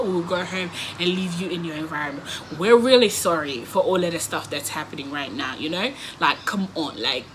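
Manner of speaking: smooth it over gently; calming plea. Retold or imitated. Narrator sweet-talking the angry guy into ordering an Uber, softly. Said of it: "I'm trying to calm down the situation".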